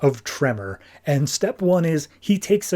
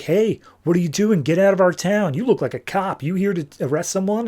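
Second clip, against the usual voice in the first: mock confrontation; 4 semitones higher than usual. Voicing townsfolk confronting Batgirl.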